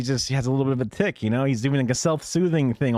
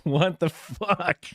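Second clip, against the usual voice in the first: laughing disbelief; 5 semitones higher, much slower than usual. Real, not acted.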